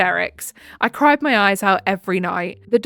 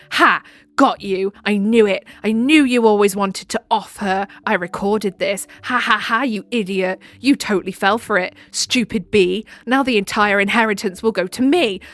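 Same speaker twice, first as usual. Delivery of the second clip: villain rant. Retold or imitated. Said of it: "That sounds like a villain arc rant now".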